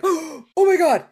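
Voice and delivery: loud, high, slow horrified gasp; a mother aghast at her child's question; shocked mother. Retold or imitated. Mother in the grocery store, horrified, loud and high.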